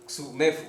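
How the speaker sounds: "xumefu" as ksu-ME-fu, middle syllable stressed. Shown as a demonstration. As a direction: lean on the E in "xumefu". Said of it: "el acento es en la E".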